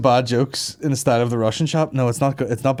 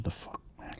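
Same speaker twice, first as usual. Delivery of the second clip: muttered road rage; 21 dB quieter than usual. Retold or imitated. Imitating own road rage.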